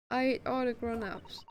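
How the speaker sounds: "ate" said with no h sound, for hate; dropped h. Acted. Gina declaring she hates grown ups, h dropped. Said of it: "Why Gina doesn't pronounce the H word?".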